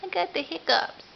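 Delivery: put-on a lifted baby-voice line, got stressed. Repeats after huh, voicing baby.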